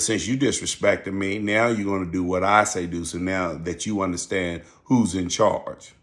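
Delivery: retold quiet show of who's in charge; understated firm order to a pupil; calm, authoritative. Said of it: "talked to him in a real calm voice".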